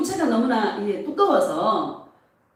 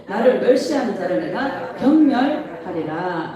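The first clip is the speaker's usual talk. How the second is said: measured, declarative Bible reading; scripture reading; 3 semitones lower than usual. Acted. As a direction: read it out solemnly for a congregation. Reads scripture aloud with congregation. (또박또박 선포하듯 성경 낭독)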